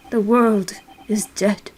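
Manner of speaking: slow, breathless whisper; despairing whisper. Acted. Moping detective ends his lament to his friends in a whisper. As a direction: let it die away into a whisper.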